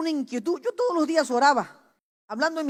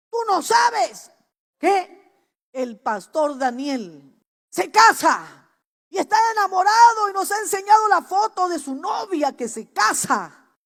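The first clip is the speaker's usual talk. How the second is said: upset relatives breaking bad news; annoyed mother and sister; 5 semitones higher than usual. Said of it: "Y estaban molestas".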